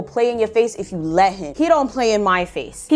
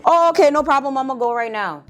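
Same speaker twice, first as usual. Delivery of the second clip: higher, breezy mock compliance; over-eager agreement; 3 semitones higher than usual. Imitating Ricardo answering mom's errand, mock eager. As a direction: agree readily, pitched up.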